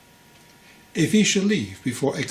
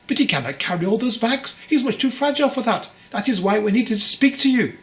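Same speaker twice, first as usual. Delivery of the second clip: sobbing mother; 9 semitones higher, 5 dB louder than usual. A narrator's reading. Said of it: "the mother sobbed".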